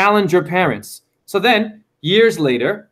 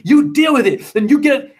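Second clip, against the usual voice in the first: higher-pitched imitation of a battling mom; combative mother; 6 semitones higher than usual. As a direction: mimic a mother fighting back. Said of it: "she's battling me".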